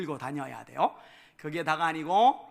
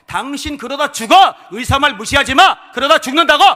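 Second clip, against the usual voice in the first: loud, high-pitched yelling tirade; doctor's angry shout; 9 semitones higher, 18 dB louder than usual. Retold or imitated. Doctor scolding a stubborn pastor-patient, angry shouting. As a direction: yell like a doctor who has lost his temper. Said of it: "의사가 목사한테 막 소리를 지르는 거예요".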